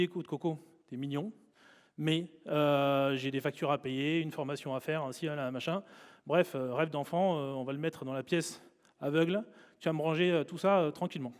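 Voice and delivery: lightly voiced adult brushing off a child's dream; adult talking down. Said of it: "met la main sur l'épaule du gosse que nous étions et lui dit". (adulte condescendant, voix plus douce)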